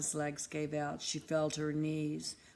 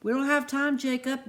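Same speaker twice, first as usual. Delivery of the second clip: higher, louder, urgent warning; 7 semitones higher, 7 dB louder than usual. Acted. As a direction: hurry them along, pressing. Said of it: "with urgency in his voice".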